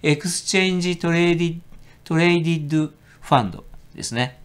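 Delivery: エクスチェンジトレーディッドファンド in flat Japanese katakana sounds; deliberately un-English reading; katakana pronunciation. Shown as a demonstration. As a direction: say トレーディッドファンド the Japanese way, not English-style. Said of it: "英語風には発音してませんけど".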